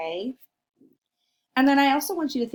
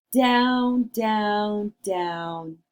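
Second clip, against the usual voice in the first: falling down; 3 dB louder, much slower than usual. Acted. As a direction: let the voice sink down the chimney. Going down the chimney.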